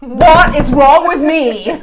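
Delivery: slow, high, loud laughing. Real, not acted. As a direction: laugh it at yourself. Laughing at her own choices.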